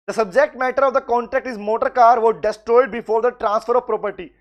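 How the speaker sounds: very slow, word by word, for notes; slow dictation. Acted. Teacher to students, dictating the answer very slowly. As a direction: spell it out slowly so they can write.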